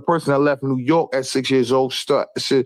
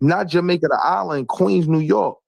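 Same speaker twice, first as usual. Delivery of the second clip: insistent correction; 4 semitones higher than usual. Real, not acted.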